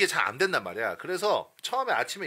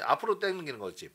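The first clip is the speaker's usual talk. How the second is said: ordinary talk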